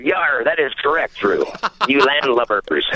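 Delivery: repeating a pirate line, laughing; a clearer, laughing pirate voice. Retold or imitated. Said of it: "that was my best pirate voice".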